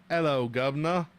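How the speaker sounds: lightly mock British accent; playful stock-British greeting, lightly put on. Streamer joking with chat, mock British accent. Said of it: "with a British accent".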